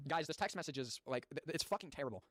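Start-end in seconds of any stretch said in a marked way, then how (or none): 1.1-2.2 stumbling over the words; stuttering. Real, not acted. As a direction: trip on the words while reading. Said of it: "I'm stuttering because I don't know what I'm reading".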